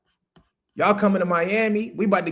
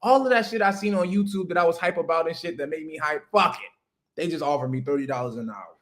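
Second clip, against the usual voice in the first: mock excitement. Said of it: "we be like this".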